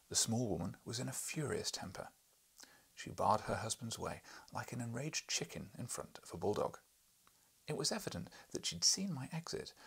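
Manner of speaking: animated audiobook reading; story narration. A narrator's reading. Reader telling of the furious Missus Challenger, animated narration. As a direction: tell the tale with lively emphasis. Reads the novel aloud.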